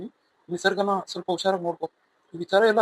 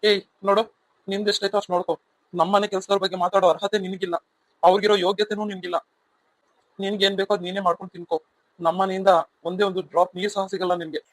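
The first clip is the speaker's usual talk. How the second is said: angry scolding. Acted. Wife scolds the woman staying in the guest room, angry and cold. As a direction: put the intruder in her place.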